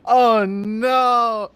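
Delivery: a real loud startled oh no; alarmed cry. Real, not acted. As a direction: yelp in sudden alarm. Sudden alarm.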